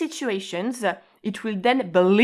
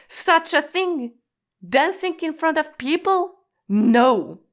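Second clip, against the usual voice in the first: aghast refusal; 7 semitones higher than usual. Shown as a demonstration. Teacher acting someone refusing to dance in public. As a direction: recoil at the idea, then flatly refuse. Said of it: "I absolutely cannot dance in public".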